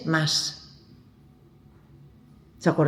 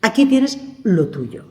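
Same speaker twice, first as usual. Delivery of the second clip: slow reading. Shown as a demonstration. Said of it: "no podemos leer la palabra así, rapidito".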